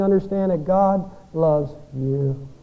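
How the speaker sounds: slow, gentle, intimate; tender assurance. Real, not acted. Preacher to struggling listeners, slow tender reassurance. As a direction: lean in and slowly reassure the hurting listener.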